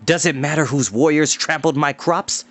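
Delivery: ruined farmer's bitter complaint; bitter retort. Acted. Farmer to Tarn over trampled crops, bitter. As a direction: fling each line back at them. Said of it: "Adan flung back".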